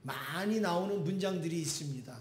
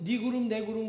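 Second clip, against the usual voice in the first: excited; 3 semitones higher, faster than usual. Retold or imitated. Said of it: "신나가지고".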